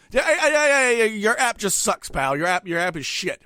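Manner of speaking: irritated outburst, loud at first; exasperated retort, high start then settling. Retold or imitated. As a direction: snap at the drive-thru worker, drawing out the complaint. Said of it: "So you get more irritated".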